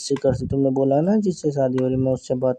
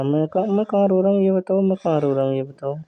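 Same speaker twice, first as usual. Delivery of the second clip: tearful denial; 4 semitones higher than usual. Acted. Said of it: "तुम रो क्यों रहे हो यार?".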